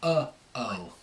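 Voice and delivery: Cockney vowel, uh before o; Cockney accent. Shown as a demonstration. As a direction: slide uh-oh into each word, Cockney. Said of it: "with the Cockney".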